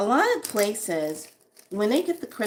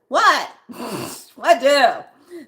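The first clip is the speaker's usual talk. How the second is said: confused; 4 semitones higher, 9 dB louder, much slower than usual. Real, not acted. Losing track, laughing.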